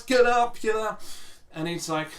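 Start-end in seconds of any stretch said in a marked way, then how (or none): 0.0-1.0 higher, louder mock yell fading off; a frantic, high call to the referee; high-pitched voice. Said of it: "in his high-pitched voice".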